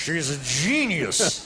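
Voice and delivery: slow proud parent boast. Shown as a demonstration. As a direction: say it like a doting dad. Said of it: "Just a proud parent voice".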